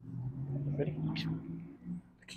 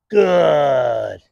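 praise shout; 7 dB louder than usual. Real, not acted.

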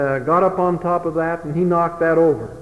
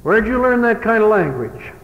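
a raised, higher stern father's question; 6 semitones higher than usual. Retold or imitated. Father catching his son cussing, stern and raised.

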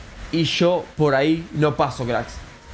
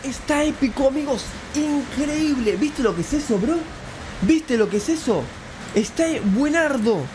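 thrilled amazement; 9 semitones higher than usual. Real, not acted. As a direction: rave about it, pitched way up. Celebra el premio con los espectadores. (euforia asombrada, aguda y alargada)

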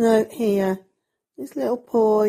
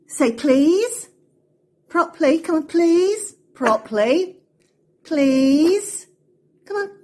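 high, louder insistent pet voice; coaxing dog; 6 semitones higher, 3 dB louder, slower than usual. Real, not acted. Training Poppy to say please, high insistent coaxing. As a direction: coax the dog to say please properly.

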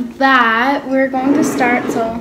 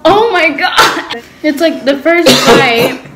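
mouth burning from spicy food; 3 dB louder than usual. Real, not acted. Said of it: "but I'm literally crying".

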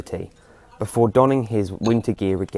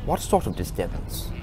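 curious; 4 dB quieter than usual. Acted. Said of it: "he asked, curiously".

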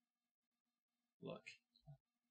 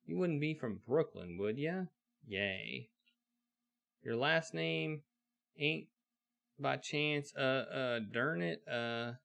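put-on old western blacksmith; 3 semitones higher than usual. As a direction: hail the stranger like a busy old smith. Blacksmith questions the stranger.

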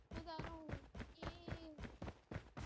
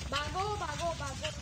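louder, urgent shouted warning; urgent call; 5 dB louder than usual. Real, not acted. Player warns teammates to run, urgent call.

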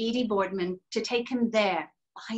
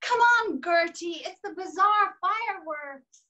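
much higher eager calling out; excited call; 9 semitones higher, 3 dB louder than usual. Acted. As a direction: urge a friend to hurry. Friend calling Gertie to come.

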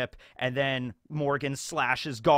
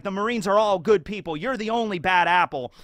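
Kobe naive insistence; 4 semitones higher, 4 dB louder than usual. Retold or imitated. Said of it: "And he's like".

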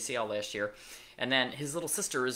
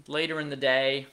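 ordinary delivery

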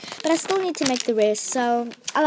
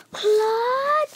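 high, loud shocked cry of his name; shocked shout; 11 semitones higher, 4 dB louder than usual. Retold or imitated. Girls in the corridor catching Claude, high shocked cry. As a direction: call him out in shock. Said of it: "she's like".

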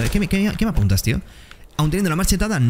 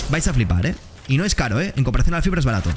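ordinary delivery

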